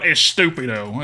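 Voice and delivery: "estúpido" said with the put-on Southern accent. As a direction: say "estúpido" loosely, keeping the Southern-style English accent. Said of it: "I can say it better than that".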